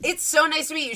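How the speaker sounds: high, eager princess voice; gushing Cinderella. Acted. Cinderella meets her famous guests, gushing and high.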